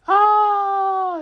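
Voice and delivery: long, loud mock scream of panic; villagers' drawn-out shriek; hammed-up "aaah"; high terrified scream. Townspeople scream at dragon.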